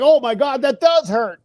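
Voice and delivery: high-pitched mock dismay; daughter's hurt protest, lightly acted; freaking out. Daughter just got the needle, mildly freaking out. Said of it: "she's kind of freaking out about it".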